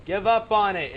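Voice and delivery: loud scoffing outburst; mock outrage at the letter; indignant shout. Real, not acted. Reacting to note's plea.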